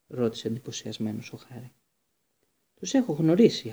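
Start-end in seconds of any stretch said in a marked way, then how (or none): 2.8-3.7 laconic. Acted. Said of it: "απάντησε λακωνικά ο Λούπιν".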